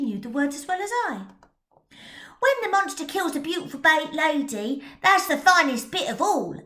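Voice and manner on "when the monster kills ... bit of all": put-on higher, louder boy voice; excited young lad; eager boy. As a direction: street lad relishing the gory bit. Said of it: "added Tommy Tucker".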